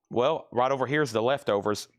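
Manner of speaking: talking through hiccups; hiccuping between words. Real, not acted. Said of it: "I've got the hiccups".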